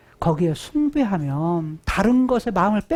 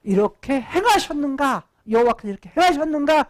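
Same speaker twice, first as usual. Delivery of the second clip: scornful jeering; 5 semitones higher than usual. Acted. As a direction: jeer like incredulous passers-by, stretching the words. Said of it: "비웃으면서 조롱하면서 말하기를".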